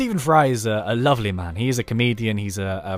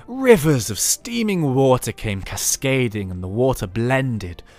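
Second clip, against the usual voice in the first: mock dramatic narrator; slower than usual. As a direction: ham up a lush storybook reading, stretching each image. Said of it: "He's not gonna be talking like that".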